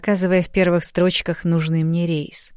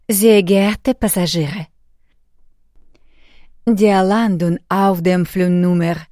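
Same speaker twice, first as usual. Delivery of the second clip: even, slow robotic PA voice; robot announcement voice; slower than usual. Acted. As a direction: announce it flat like an airport robot. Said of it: "ровный голос робота на весь аэропорт".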